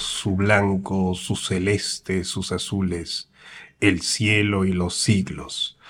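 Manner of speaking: slow, solemn poetry recital fading to a hush; hushed, drawn-out reading of a mountain poem. Acted. Reads listener's poem aloud.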